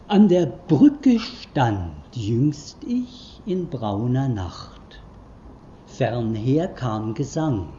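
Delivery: slow, hushed poetic reading; poem recital. Acted. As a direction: let each line float, slowly. Reads Nietzsche poem aloud. (langsamer, leiser Gedichtvortrag)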